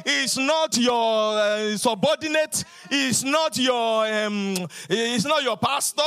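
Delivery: loud, slow, hammering sermon cadence; full-force preaching. Acted. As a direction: pound each line at the congregation.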